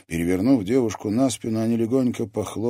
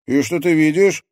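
put-on loud, high, excited young man; amazed and eager; exclaiming; 12 semitones higher, 9 dB louder than usual. A narrator's reading. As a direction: burst out with eager curiosity. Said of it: "воскликнул Алекс".

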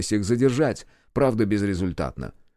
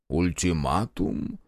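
slow, lower, disbelieving repeat; slow mock disbelief at an ultimatum; incredulous echo; 4 semitones lower, slower than usual. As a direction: echo the word as if it were absurd.

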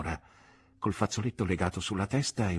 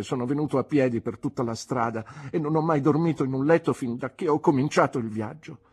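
put-on pleading boy; 3 semitones higher than usual. Runaway nephew begging his aunt to take him in, desperate plea. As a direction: pour out his woes, building to a desperate cry.

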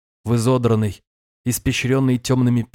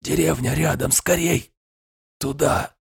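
breathless, urgent and higher; gasping for air; 4 semitones higher than usual. Acted. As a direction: push the words out between gasps. Wounded man urging, out of breath. (задыхаясь, торопливо)

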